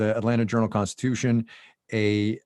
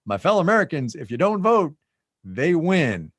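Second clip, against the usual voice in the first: raised, mock speech voice; Pence speech; 6 semitones higher, 3 dB louder than usual. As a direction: ham up the rally line. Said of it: "then he goes on".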